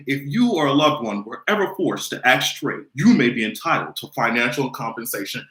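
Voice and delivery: lightly voiced legal-ad read; mock ad announcer. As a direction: read it like a compensation commercial. Parodies a legal advertisement.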